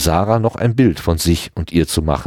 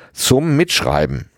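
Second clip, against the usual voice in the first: higher, slow, pointed shout; 7 semitones higher, slower than usual. A narrator's reading. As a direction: spell it out at him, hammered slow. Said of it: "schrie er ihn an". (Markus schreit Fredde drohend an: laut und langsam)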